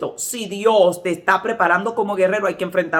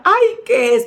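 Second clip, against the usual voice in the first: higher, louder startled cry; mock fright; 5 semitones higher, 5 dB louder, slower than usual. Sister with a giant spider on her skirt, mock frightened cry. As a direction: imitate a frightened woman asking.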